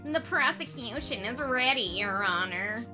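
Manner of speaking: sinister prosecutor voice. Acted. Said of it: "same voice I did for the killer".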